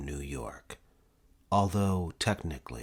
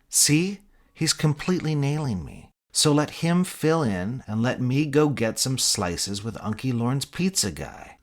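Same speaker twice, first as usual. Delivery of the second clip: high, eager and loud; excited; 7 semitones higher, 5 dB louder than usual. Acted. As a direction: pitch it up, thrilled. Mitch excited, pleading.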